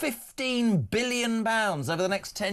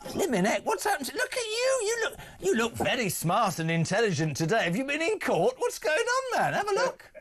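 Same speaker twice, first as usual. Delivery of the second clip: mock Scouse; 6 semitones higher than usual. Host teasing guest in mock Scouse.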